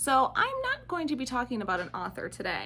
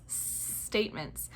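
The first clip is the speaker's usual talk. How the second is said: whispered; 8 dB quieter, much slower than usual. Shown as a demonstration. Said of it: "I might also say statements".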